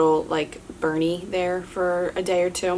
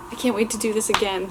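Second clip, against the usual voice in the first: thrilled; 5 semitones higher than usual. Retold or imitated. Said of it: "I think I said".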